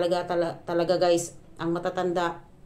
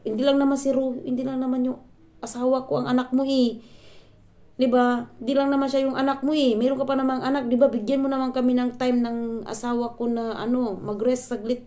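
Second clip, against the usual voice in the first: higher and louder, pleading anger; heated outburst; 6 semitones higher, 4 dB louder than usual. Retold or imitated. Daughter-in-law confronting mother-in-law about rest, heated and loud. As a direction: finally let it all out. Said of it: "hindi ko na napigilan yung sarili ko".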